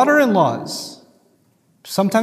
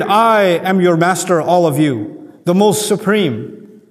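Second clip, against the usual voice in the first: imperious pharaoh. Retold or imitated. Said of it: "he declared".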